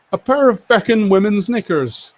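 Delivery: half-hearted Irish brogue on a viewer's chat line; Irish accent. Retold or imitated. Streamer reading a viewer's comment aloud, attempting an Irish accent. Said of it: "I can't do the Irish accent".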